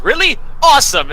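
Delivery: high, loud enthusiasm; delighted surprise. Acted. Teacher delighted his guess landed, loud and excited. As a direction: leap up in pitch, then land it loudly.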